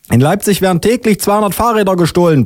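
high put-on indignant policewoman; yelling policewoman. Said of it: "brüllt die Polizistin".

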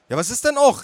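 high, protesting aunt; aunt calling out. Acted. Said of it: "rief meine Tante".

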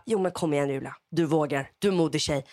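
low, steady retold pep talk; lightly voiced mother, low and encouraging; measured encouragement. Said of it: "Och heller inte för mjukt".

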